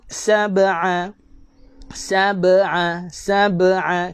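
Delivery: "Sab'a" with a slight bounce on the b; slow "Sab'a", the b released with a small bounce; small qalqalah. Shown as a demonstration. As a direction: lightly echo the b before the ain in "Sab'a". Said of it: "kecil je lantunan dia".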